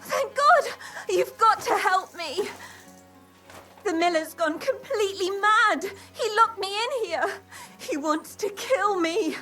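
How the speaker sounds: frightened and on the verge of tears; panicked, tearful. Acted. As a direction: pour out the panic. Captive panicking, wants rescue.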